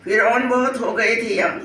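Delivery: measured mushaira verse reading; poem recitation. Acted. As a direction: recite the couplet line by line, pausing between lines. Recites her flood poem. (शायरी सुनाने का अंदाज़)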